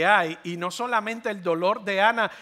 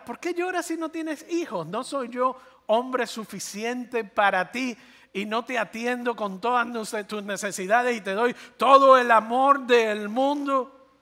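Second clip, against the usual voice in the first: higher, pleading husband who thinks he is enough; self-satisfied husband; 5 semitones higher than usual. Acted. Husband to childless wife, higher and self-pitying. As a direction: play the husband, hurt she wants more. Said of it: "En otras palabras".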